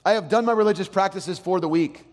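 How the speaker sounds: hammed-up smug believer; mock self-satisfied churchgoer. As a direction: play the one who expects a reward. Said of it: "you go".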